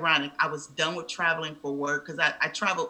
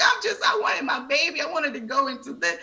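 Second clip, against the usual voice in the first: imitating her own tearful wail, higher and louder; retold crying; 11 semitones higher, 5 dB louder than usual. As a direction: replay the upset cry, half-performed. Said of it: "I'm crying".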